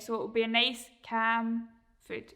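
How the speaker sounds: slow, gentle "cam", then food; nice calm cam. Shown as a demonstration. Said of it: "try and be calm when you're saying it".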